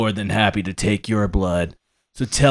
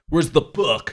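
higher, hammed-up demand for the book; character voice demanding; 6 semitones higher than usual. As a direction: push it as the rogue character. Asks again in character voice.

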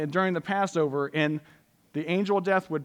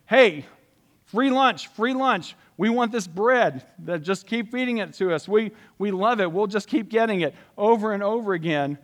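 higher, louder mock crowd begging for more; greedy crowd; 4 semitones higher, 4 dB louder than usual. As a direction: ham up the freeloading crowd. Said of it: "They kept coming to him going".

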